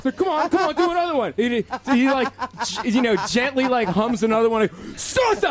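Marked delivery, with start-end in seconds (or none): 0.0-1.3 eager goading. Retold or imitated. Goading a reluctant man in story. 5.0-5.5 very high, hammed-up chop shout; mock karate yell. Imitated yell on another karate chop.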